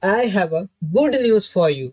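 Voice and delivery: reads "I have a good news for you" word by word, very slowly; slow dictation. Shown as a demonstration. Teacher rereads example sentence for students, very slow. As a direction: read it out slowly so it sinks in. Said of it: "ये sentence कह रहा है कि".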